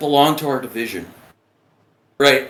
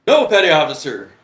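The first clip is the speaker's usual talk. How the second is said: high, meek mock protest; pleading recruit; 8 semitones higher, 4 dB louder than usual. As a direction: plead your case in a raised voice. Recruit excuses himself to superior.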